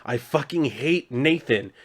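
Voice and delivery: retold bitter confession, slowed down; breaking down. Marshall finally confesses to the alien, breaking down. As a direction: act out a mild breakdown, drawing the words out. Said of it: "this is where he finally breaks down".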